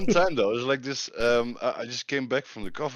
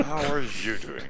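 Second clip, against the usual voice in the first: high, slow sing-song; mock manager greeting; 13 semitones higher than usual. Friend echoing the boss's greeting, high sing-song. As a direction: parrot the manager sweetly.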